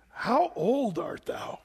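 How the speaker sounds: slow reading. Retold or imitated. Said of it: "Pharaoh said unto Jacob".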